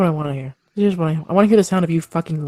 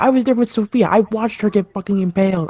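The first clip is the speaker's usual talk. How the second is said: raised, heated retort; angry; 5 semitones higher than usual. Acted. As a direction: fire it back in anger. Heated in-character argument.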